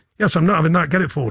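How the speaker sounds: usual speaking voice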